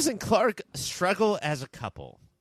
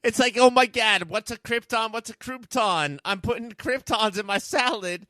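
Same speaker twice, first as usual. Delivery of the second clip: Louie; 4 semitones higher than usual. Acted. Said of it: "my voice is so much different than Louie".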